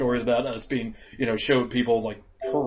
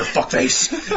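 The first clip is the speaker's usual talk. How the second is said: mock sneer; 13 semitones higher than usual. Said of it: "Wrong answer".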